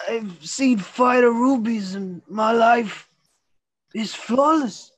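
impressed jeweler. Acted. Jeweler inspects the ruby.

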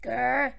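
mock growl. Boss growls at thrown card.

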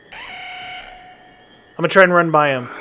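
panicked yelling while fleeing; being chased. Real, not acted. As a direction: shout the warning in a panic. Boss chasing them, yelling.

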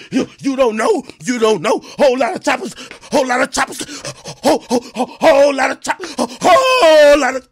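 lightly sung, half-shouted stuttering tough-guy threat; mocking the rapper's threat by reading it in a sing-song voice; mock singsong threat. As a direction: read the DM like he's singing and stuttering. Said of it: "act like he was singing a song, stuttering".

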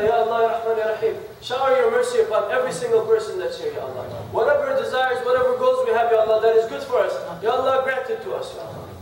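rhythmic prayer, each plea closed by a dropped Ya Allah; earnest supplication. Acted. Preacher making dua over the congregation, fervent prayer. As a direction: pray over the gathering with steady devotion.

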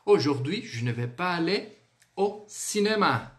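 "Aujourd'hui" lifted, then "cinéma" falling; intonation model. Shown as a demonstration. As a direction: repeat the French for learners, rising then falling. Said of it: "Vamos falar mais uma vez então".

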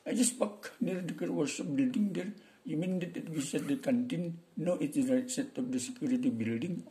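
Indian accent. Shown as a demonstration. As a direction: lightly imitate an Indian English accent. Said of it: "Orang India itu". (logat India tiruan)

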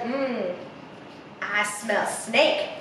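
low, slow predatory bird; hungry bird licking her beak. A narrator's reading. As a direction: savour the scent, slow and low. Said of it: "Bird is, like, not licking her lips".

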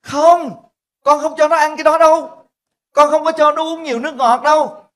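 high, loud daughter refusing flatly; firm protest. Retold or imitated. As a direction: put your foot down, loud and high. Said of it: "con gái của tôi nói". (con gái phản đối to và cao giọng)

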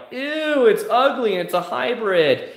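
high, squealed disgusted ew; a hammed-up grossed-out buyer; mock disgust. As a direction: turn your nose up at it in a high voice. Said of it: "they were like".

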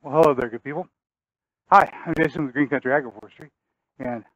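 winded, catching breath between words. Real, not acted. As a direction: talk while still puffing from work. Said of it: "I'm a little bit out of breath".

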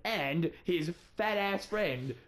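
slow, drawn-out announcer voice; mock radio host. Filling in for Matthew on fake radio, hammy announcer voice. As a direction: introduce yourself like a cheesy DJ.

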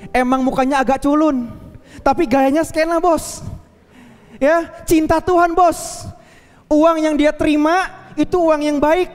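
woman telling her pastor he was right, lightly voiced; grateful young woman.

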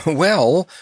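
a chuckle leading into a high word; chuckle, then answer brightly; amused, lifted pitch; chuckling. Acted. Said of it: "chuckled Notta".

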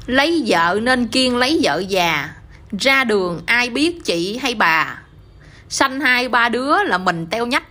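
measured, slow verse delivery; slow poem recital. Acted. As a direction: recite each verse line slowly and evenly. Son recites verse to parents.

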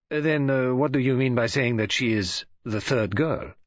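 lightly voiced foreign detective, measured and questioning; Poirot, puzzled. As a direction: ask with patient, precise puzzlement.

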